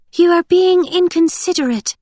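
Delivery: ordinary delivery, nothing marked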